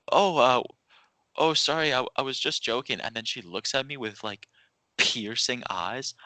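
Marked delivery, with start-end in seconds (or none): 0.1-3.0 flustered apology. Retold or imitated. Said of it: "And I go".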